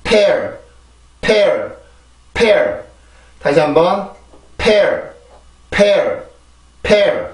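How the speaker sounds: pear with a strong puff of air on the p; model pear. Shown as a demonstration. Teacher demonstrates pear with a strong p. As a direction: pear with the lips pressed, then a burst. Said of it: "발음을 해볼게요".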